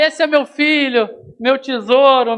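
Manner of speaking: doting mother impression. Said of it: "aparece a mãe do Kiko".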